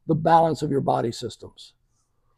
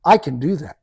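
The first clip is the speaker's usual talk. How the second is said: more energy; 3 dB louder than usual. Retold or imitated. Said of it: "with a little more energy in her voice".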